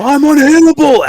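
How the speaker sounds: high mock shout of triumph. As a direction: yell it out cocky and loud. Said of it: "you scream".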